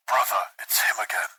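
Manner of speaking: hushed, whispery radio voice; muttered over comms. A narrator's reading. Marine to his brother over the comm channel, muttering. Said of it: "muttered one Marine over the comm channel".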